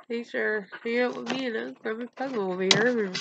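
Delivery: quick sign-off through tears; tearful catchphrase; after crying. Real, not acted. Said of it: "I've been crying".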